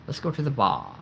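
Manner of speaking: "bar" said "bah", with no R; British dropped R. Shown as a demonstration. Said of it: "they say bar".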